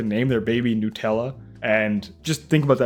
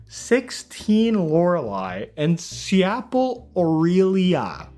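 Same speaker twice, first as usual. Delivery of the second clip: drawn-out sounding out; 5 semitones higher, much slower than usual. Acted. Reading out absurd twin names.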